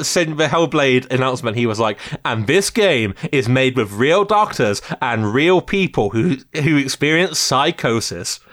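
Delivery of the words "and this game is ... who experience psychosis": mild upbeat dude announcer; lightly voiced cheery announcer. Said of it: "kind of dude voice throughout it".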